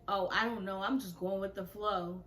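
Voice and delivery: casual, unbothered retold reply; nonchalant. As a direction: shrug it off in an even voice. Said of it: "every nonchalant response".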